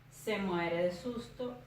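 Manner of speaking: "Se muere de susto" slow and measured, syllable by syllable; slow, careful syllables on "Se muere de susto". Shown as a demonstration. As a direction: sound out "Se muere de susto" slowly for counting. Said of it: "comienzo a separar en sílabas".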